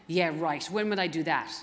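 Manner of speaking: a clumsy, half-hearted Irish accent on a retold reply; lightly put-on Irish lilt, barely there; bad Irish accent. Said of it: "that was a bad Irish accent".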